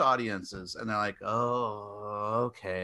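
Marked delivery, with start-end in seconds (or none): 1.2-2.8 low, soft, reluctant okay; meek giving-in. Retold or imitated. Ratings board giving in to the filmmakers, meek and quiet. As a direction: back down quietly.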